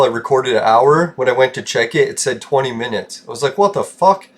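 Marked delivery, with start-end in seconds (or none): 3.6-4.3 retold disbelief, pitched high; high-pitched incredulous quote; baffled reaction. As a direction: act out a baffled outburst, voice jumping up. Retelling his reaction to failed recording.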